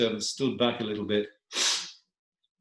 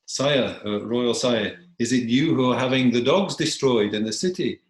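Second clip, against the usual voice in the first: lightly voiced petitioner, raised and louder; petitioning dog; 2 semitones higher, 6 dB louder than usual. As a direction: address a king with a touch of formal challenge.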